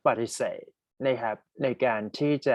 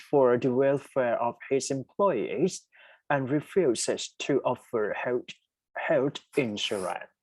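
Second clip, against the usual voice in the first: very slow, word by word reading; slow dictation; 2 semitones lower, much slower than usual. Shown as a demonstration. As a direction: read the sentence out for learners, slowly. Rereads test sentence slowly. (อ่านประโยคโจทย์ช้ามาก)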